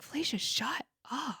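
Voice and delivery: whispered to herself, hushed. Retold or imitated. Embarrassed woman to herself, whispering. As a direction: hiss it under the breath. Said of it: "whispered to herself".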